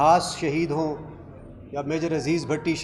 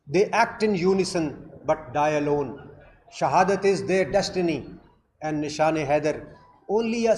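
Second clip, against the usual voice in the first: slow, measured recitation in English; solemn quotation recital; much slower than usual. Acted. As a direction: recite it word by weighty word, drawing out the key words. (ठहर-ठहर कर संजीदगी से सुनाया गया क़ौल)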